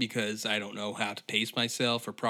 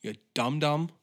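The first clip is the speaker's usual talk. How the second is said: scolding, pitched up high; sarcastic higher-pitched telling-off; mocking scold; 5 semitones higher than usual. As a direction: talk down to a fool. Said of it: "It's like".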